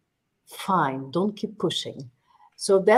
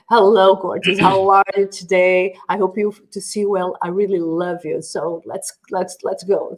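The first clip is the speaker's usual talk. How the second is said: louder English with an Italian accent; 4 dB louder than usual. Shown as a demonstration. Guest translates her Italian phrase for the hosts, mock Italian accent. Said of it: "I was trying to say".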